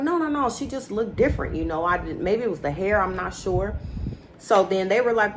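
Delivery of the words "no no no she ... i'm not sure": the man on the show, dodging questions, a light mock evasive denial. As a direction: wave it away like you're dodging the question. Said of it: "And Martell was like".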